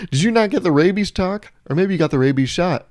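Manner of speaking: high-pitched mock disbelief; incredulous. Asking the squirrel feeder about rabies, incredulous. Acted reaction to feeding wild squirrels.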